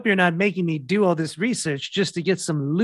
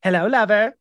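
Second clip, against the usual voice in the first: breathy vintage purr, louder; sudden sweetness; 4 semitones higher, 5 dB louder than usual. Acted. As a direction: switch into a sweet seductive coo. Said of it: "very sweet sudden".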